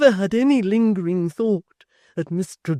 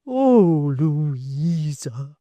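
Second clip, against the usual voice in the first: crying out; 3 semitones higher, 10 dB louder, much slower than usual. A narrator's reading. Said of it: "cried Miss Tox".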